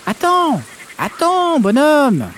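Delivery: cri aigu de grenouille, très haut; appelle-le de loin, voix perchée; crier. Acted. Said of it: "une grenouille me crier". (cri de grenouille très aigu)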